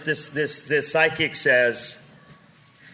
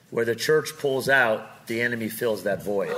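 quiet divine voice; 5 semitones lower than usual. Retold or imitated. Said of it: "the Holy Spirit speaks to me".

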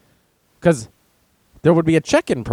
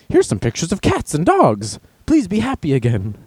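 higher, pleading mock cheer; mock cheery pop-up; 4 semitones higher than usual. Facebook pop-up consoling a suicidal user, mock cheer. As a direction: offer comfort in a silly, higher voice.

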